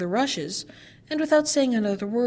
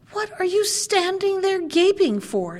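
put-on high, raised scream at the girls; dwarf screaming; 9 semitones higher, 3 dB louder than usual. A narrator's reading. Dwarf catches the girls staring at his jewels, screaming. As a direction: snap the question out in a rage. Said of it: "screamed the dwarf".

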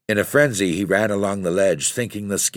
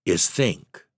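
tenderness. Acted. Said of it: "with infinite tenderness".

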